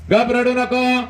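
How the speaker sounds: very high, strained plea; mother's tearful plea. Acted. Mother begging her son not to cry, high strained plea. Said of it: "ती माऊली म्हणते".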